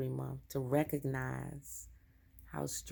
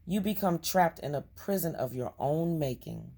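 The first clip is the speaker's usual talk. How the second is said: measured reading with lightly punched key words; card reading aloud; 5 dB louder than usual. Acted. Reading a forgiveness card to viewers, measured read-aloud. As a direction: read it out as earnest guidance.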